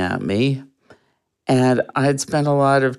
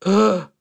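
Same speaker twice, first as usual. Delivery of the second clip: short, higher-pitched mock gasp; imitated shocked gasp; 7 semitones higher than usual. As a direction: mimic her sharp, affronted "ugh". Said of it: "she looked at me with, like".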